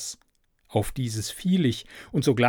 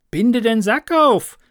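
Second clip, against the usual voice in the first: much higher, louder urgent call; 10 semitones higher, 8 dB louder than usual. A narrator's reading. Little Klaus in the sack calls to the cowherd, urgent. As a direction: call out eagerly to be untied. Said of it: "rief der kleine Klaus".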